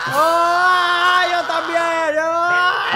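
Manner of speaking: high, very loud wail; all-out mock scream; hammed-up yelling. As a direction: yell wildly in mock frenzy. Answering the yelling game.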